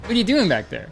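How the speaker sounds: imitating a fan. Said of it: "they'd be like".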